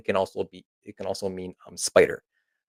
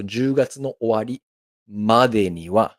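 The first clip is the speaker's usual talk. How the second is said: slow model phrase; 4 dB louder than usual. Shown as a demonstration. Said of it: "let's do it again".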